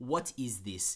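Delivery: put-on Armenian-Russian accent. Retelling what a piano teacher used to say: Sergei Babayan accent. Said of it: "he has a great accent".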